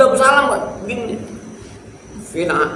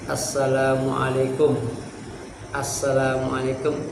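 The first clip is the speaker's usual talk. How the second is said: recited salam; 4 semitones lower, 6 dB quieter than usual. Shown as a demonstration.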